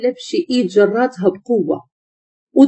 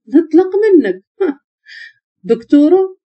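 higher, teasing echo with a short laugh; sly mockery; 6 semitones higher than usual. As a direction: toy with them through a wicked smirk. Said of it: "ابتسامة خبث".

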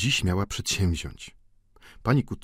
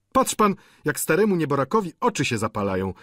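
plotkarskie podniecenie; 5 semitones higher, 3 dB louder, faster than usual. Acted. Pani Vauquer plotkuje.

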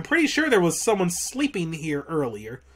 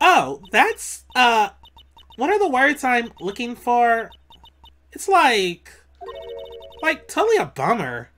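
put-on Valley Girl voice; 4 semitones higher than usual. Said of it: "I gotta do a Valley Girl voice".

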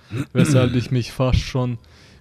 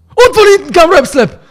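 sudden shout; 15 dB louder than usual. Pretend. Joking jump-scare line.

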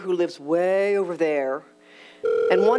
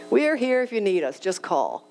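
reflective repeat. Real, not acted. Speaker repeating the neighbor's words as it sinks in, thoughtfully. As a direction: let the words land as a realization. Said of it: "A huge light bulb went off".

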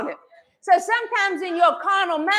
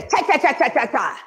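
plain cha chant. Shown as a demonstration. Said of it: "everybody say".

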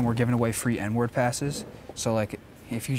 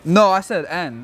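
slow correction; 4 semitones higher, 6 dB louder, slower than usual. Real, not acted. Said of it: "You, you said M".

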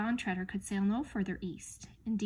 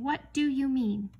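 slow, raised, louder question; indignant demand; 5 semitones higher, 5 dB louder, slower than usual. A narrator's reading. King demands his subjects explain, slow and indignant.

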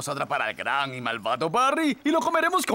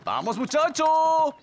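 coaxing call; 7 semitones higher than usual. Acted. Calling fish like a dog.

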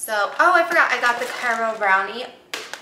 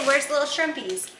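put-on playful baby talk on "shrimpies"; sweet cutesy voice for "shrimpies"; 5 semitones higher than usual.

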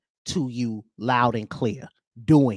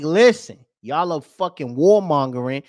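lightly voiced protester, louder opening; retold protester; 5 dB louder than usual. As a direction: call out an accusation, imitating a protester. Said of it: "my man was like".

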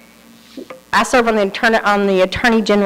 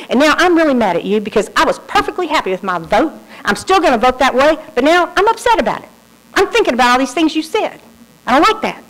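retold anger; 4 semitones higher, faster than usual. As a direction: play back her angry rant with a raised voice. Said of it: "she was obviously angry".

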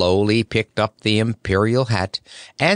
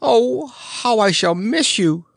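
much higher, slow, tearful voice; tearful wail; 13 semitones higher, slower than usual. A narrator's reading. Happy Toko grieving the Scarecrow, tearful and slow. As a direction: cry out the loss. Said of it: "he sobbed disconsolately".

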